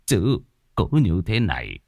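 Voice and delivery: soft, fearful pleading; trembling plea. Acted. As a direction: beg quietly, voice shaking a little. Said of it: "Ông Trọng run run". (giọng run run van nài, nhỏ hẳn đi)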